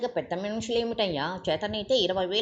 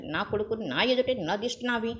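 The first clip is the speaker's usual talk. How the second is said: angry tirade; 3 semitones higher than usual. Acted. Father berates visitor.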